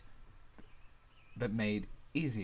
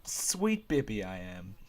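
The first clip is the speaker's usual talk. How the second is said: put-on Scottish accent; 2 semitones lower, slower than usual. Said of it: "am I about to use a Scottish accent?".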